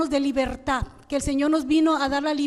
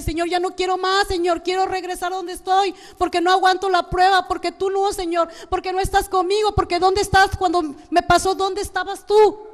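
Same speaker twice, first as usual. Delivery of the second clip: raised, insistent complaint to God; acted reproach; 4 semitones higher, 3 dB louder than usual. Believer in a trial reproaching the Lord, acted heated complaint. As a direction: act out pleading protest, building louder toward the end. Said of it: "A veces le reclamamos al Señor".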